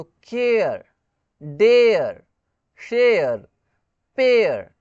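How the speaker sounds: "केयर, डेयर, शेयर, पेयर" slow, with "air" ending in a soft r; A before soft R. Shown as a demonstration. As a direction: model each of "केयर, डेयर, शेयर, पेयर" separately, drawn out. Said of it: "with a soft tone".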